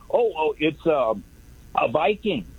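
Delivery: halting mock stammer with filler; imitated stuttering. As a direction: mimic someone groping for the answer. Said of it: "He's stuttering".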